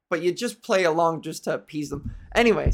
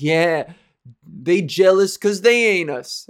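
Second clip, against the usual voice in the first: louder, slow swaggering brag; mock swaggering bro; 4 dB louder, slower than usual. Mocking a sauntering douchebag, slow swagger. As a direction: strut it out like a jerk.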